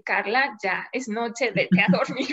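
mock orders that dissolve into laughter; body clock talking. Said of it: "mi reloj biológico me dice".

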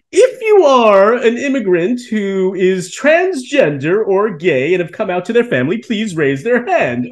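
robotic college president. Retold or imitated. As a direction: drawl it out like a robot announcer. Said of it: "he goes".

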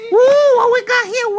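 loud, excited gasp of wonder; excited ooh. Real, not acted. Host greeting the parade of animals, excited.

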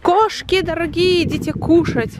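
sing-song call to come and eat. Real, not acted. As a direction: call them over to their food. Calling the cats to eat.

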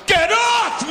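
high squeaky strained toilet voice; mock high-pitched toilet protest; talking toilet. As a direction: voice the toilet begging to be let go. Toilet talks in joke.

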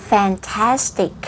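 FANTASTIC spoken slowly, every syllable clear; "fantastic" as a slow teacher's model; over-enunciated. Shown as a demonstration. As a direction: exaggerate the mouth shapes on "fantastic". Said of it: "ขยับปากเว่อร์ๆเลยเนาะ".

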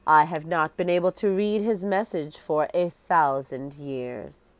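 lightly voiced ghostly queen, solemn; hollow echoing voice. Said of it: "She spoke in a hollow, echoing voice".

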